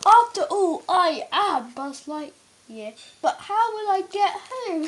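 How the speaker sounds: half-laughing hero lines; giggly Buzz. Real, not acted. Child reading Buzz's lines, still giggling.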